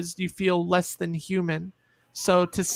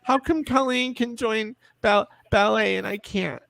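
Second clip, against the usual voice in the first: put-on higher, plaintive child's voice; hurt child; 4 semitones higher than usual. Child asking mom why not ballet, higher plaintive voice. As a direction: whine it like a small kid left out.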